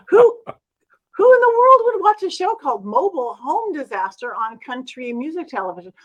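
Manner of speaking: loud, incredulous retold question. Reacting to a friend's TV show offer, incredulous. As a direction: launch in loud and disbelieving. Mocking the show's name.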